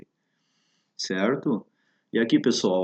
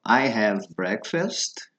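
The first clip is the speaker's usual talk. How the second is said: slow model phrase; much slower than usual. Shown as a demonstration. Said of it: "para as demais refeições também".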